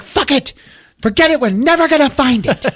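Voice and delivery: high-pitched exasperated outburst; lost patience. Retold or imitated. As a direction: act out giving up in a fit of impatience. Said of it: "Jennifer has lost patience".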